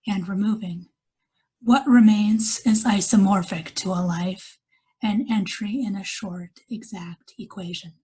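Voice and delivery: measured poetry reading with pauses between lines; poem recital. Acted. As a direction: read each line as verse, letting it settle. Reads her poem aloud.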